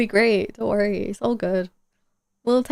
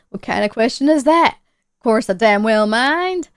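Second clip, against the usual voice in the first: indignant homeowner; 5 dB louder than usual. Acted. Voices indignant Red.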